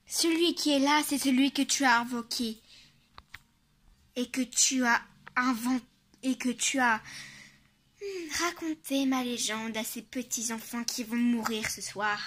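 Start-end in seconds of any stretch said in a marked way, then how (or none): 0.1-10.8 menacing monster. Acted. Monster reveals itself.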